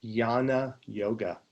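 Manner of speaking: "Jnana" said slowly as YAH-nah; yan sound. Shown as a demonstration. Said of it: "you get the yan sound".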